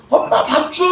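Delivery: put-on a child's impatient call for food; child demanding. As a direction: play a child nagging mom for rice. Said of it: "마치 어린애들이".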